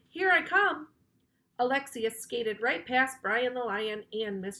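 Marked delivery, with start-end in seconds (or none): 0.1-0.9 high loud call; shouted. A narrator's reading. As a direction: call out across the pit. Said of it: "Alexia shouted".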